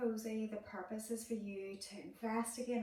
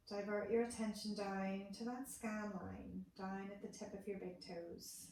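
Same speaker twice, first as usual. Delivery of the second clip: guided meditation. Acted. Therapist moving attention up from the toes, calm meditation voice. Leads a guided body scan.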